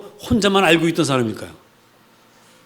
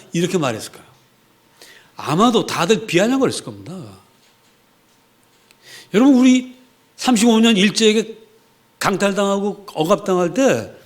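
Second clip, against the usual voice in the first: ordinary delivery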